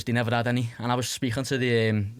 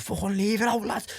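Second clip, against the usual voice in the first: mock scream pitched much higher; big cellmate's mock yell, pitched way up; retold scream; 10 semitones higher than usual. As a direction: imitate a big lad screaming from his bed, voice shooting up. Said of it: "screaming at him".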